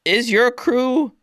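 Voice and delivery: high, stern address; old orc elder. Acted. Elder addresses Mama Sass, high and stern. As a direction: summon her attention firmly. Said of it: "the old woman".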